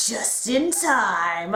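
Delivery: very slow, mock-heroic hero line; action movie hero voice. Fan imitating the hero's big entrance, slow mock hero voice. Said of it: "that deep, like, action movie hero voice".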